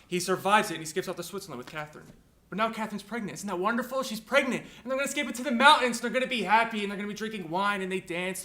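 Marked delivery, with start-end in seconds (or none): 2.5-8.4 rising, gushing sarcasm; mock delight. Sarcastic retelling of novel's ending.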